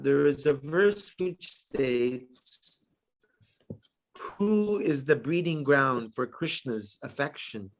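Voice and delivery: measured devotional read-aloud; scripture reading. Real, not acted. Reading Radharani's qualities to fellow devotees, measured scripture reading. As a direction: read it out in phrases, slowing at the close.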